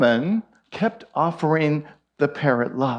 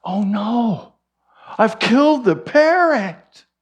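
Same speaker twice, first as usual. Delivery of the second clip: mock panic; 7 semitones higher, 4 dB louder than usual. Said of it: "And she thinks".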